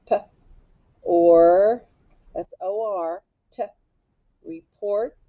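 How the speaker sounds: "p", "or", "t" sounded out separately, then blended into "report". Shown as a demonstration. Teacher sounding out the base word for students, segmented. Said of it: "sounding out a word".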